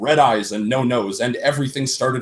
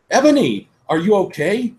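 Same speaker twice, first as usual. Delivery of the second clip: high, fussy worried bandmate; mock concerned friend; 10 semitones higher, 4 dB louder than usual. A narrator's reading. Bandmate checks on the crying heroine, mock concern. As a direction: fret over her like a mother hen. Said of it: "asked in a concerted voice".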